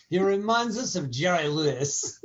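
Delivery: a light mock French accent as snooty Parisians; bad French accent. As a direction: play a haughty Parisian, French accent kept loose. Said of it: "That was my bad French accent".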